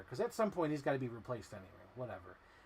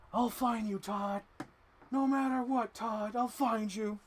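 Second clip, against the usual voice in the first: higher, louder movie-villain vow, slow at the end; Fox and the Hound quote; 9 semitones higher, 4 dB louder, slower than usual. Retold or imitated. Quoting Fox and the Hound to the figure, higher and louder. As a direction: vow it like a cartoon hunter. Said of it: "that's how they say it in Fox and the Hound".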